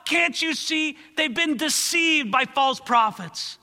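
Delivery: high, loud, urgent plea for the deceived people; pleading with God. Acted. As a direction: beg the Lord on their behalf, then mock the false prophets. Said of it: "He's trying to say".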